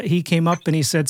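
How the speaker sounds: ordinary talk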